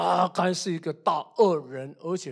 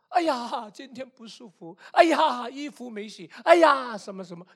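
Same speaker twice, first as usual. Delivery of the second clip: excuse-making mother; 5 semitones higher than usual. Retold or imitated. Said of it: "她每次都是临时说掉链子".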